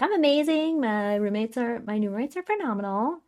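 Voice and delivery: high, hammed-up enthusiasm; acting out someone insisting life is great; imitated gushing. Acts her upbeat answer to friends.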